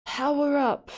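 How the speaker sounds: high, drawn-out echo of a game call; mimicking echo. Streamer echoes the power up from the video, mimicking. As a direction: mimic it high, falling at the end.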